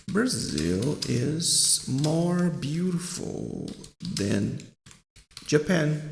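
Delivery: drawn-out words, paced piece by piece; slow example sentence. Shown as a demonstration. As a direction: stretch each word with pauses between. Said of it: "por exemplo, assim". (frase de exemplo bem devagar, palavra por palavra)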